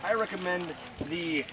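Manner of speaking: slow, grand over-pronounced beer name; fancy sommelier voice. Pretend. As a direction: announce it like a posh waiter. Bartender names fancy beer.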